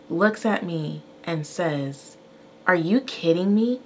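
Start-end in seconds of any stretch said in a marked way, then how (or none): 2.7-3.8 mildly indignant imitation of a child; imitated son's tone. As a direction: retell his cheeky question with rising disbelief. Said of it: "in that tone".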